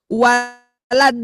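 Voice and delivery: Waladolin with a plain d, slow; wrong waladolin. Shown as a demonstration. Teacher demonstrates the wrong Waladolin. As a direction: say Waladolin flat with a plain d sound. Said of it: "tidak dibaca do".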